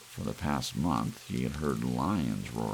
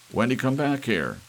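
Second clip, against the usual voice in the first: calling out; 9 semitones higher, 7 dB louder than usual. Acted. Father calls after daughter.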